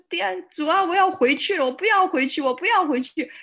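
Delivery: high, loud frightened cry to God; panicked plea. Retold or imitated. On the ship's deck, begging God not to be sent home, high and panicked. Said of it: "我就在那边吓坏了".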